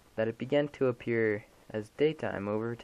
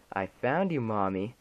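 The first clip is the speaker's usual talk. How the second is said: put-on creepy child voice. Dead child finds mother.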